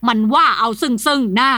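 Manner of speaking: grind it out through clenched teeth; old master advancing on his son-in-law, seething threat; teeth-grinding rage. Acted. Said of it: "ขบเคี้ยวเคี้ยวฟันกรอดกรอด".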